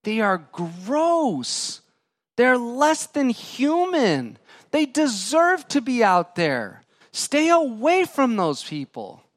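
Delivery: high, slow, contemptuous voice of the crowd; scornful outsiders. Acted. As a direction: sneer it like the people shunning him. Voicing people shunning leper.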